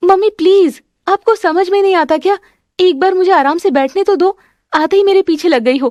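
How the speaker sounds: irritated, exasperated outburst, snapped at high pitch. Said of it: "गुस्सा मत कर".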